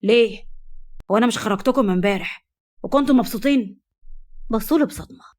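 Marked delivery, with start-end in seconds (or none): 0.0-3.8 feigned surprise. Acted. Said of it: "اصطنع الذهول وقال".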